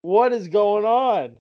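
high, drawn-out bewildered exclamation; exasperated disbelief. Retold or imitated. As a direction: stretch it out, high and incredulous. Exasperated at friend's empty account.

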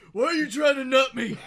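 loud, laughing outburst; laughing yell. Real, not acted. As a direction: shout it while cracking up. Laughing shouted retort.

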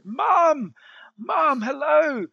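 high, loud, slow calls of Mum; shouting down the line. Retold or imitated. Son shouting to his mum on a bad line, calling loud and high. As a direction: call out over a crackling phone line. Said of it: "I shouted down the line".

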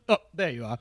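laughing Arnold impression.

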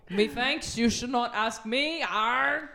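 Scottish pirate. Acted. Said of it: "Are you from Scotland".

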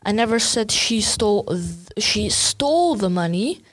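"stole" hit with a rise; "stole" stressed, rest level. Shown as a demonstration. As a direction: punch the word "stole". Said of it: "She could have, borrowed it".

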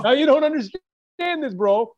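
high, slow mock Armenian accent. Joking with his podcast cohost, high, slow Armenian accent. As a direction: tease a friend in an exaggerated Armenian accent. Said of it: "he's doing an Armenian accent".

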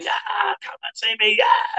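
mock high call from the bar girls; sing-song mock come-on. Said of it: "they were shouting and screaming".

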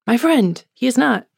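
mock-indignant brush-off of an accuser; indignant denial. Peter denying Jesus to a bystander, indignant.

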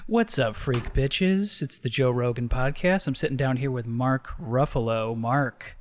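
lightly voiced low laid-back podcast host; a hint of Joe Rogan. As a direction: drawl the intro like Rogan. Joe Rogan podcast intro impression.

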